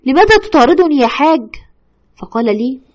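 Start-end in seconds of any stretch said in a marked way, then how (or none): 0.0-1.5 pressing, louder plea; urgent retold question. Widow confronting her dead husband's spirit, louder and pressing. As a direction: demand an answer from the ghost. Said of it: "وقد سألت الوسيط".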